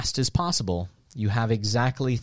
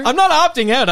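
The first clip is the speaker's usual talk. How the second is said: shouting in pain; 13 semitones higher, 7 dB louder than usual. Real, not acted. Being shocked mid-answer.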